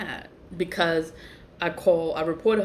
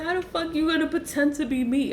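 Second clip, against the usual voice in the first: much higher, laughing through the question; laughing disbelief; 9 semitones higher than usual. Retold or imitated. Laughing incredulous quote.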